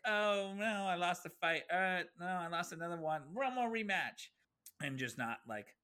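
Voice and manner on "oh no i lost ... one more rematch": mock fake dismay. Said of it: "It's like".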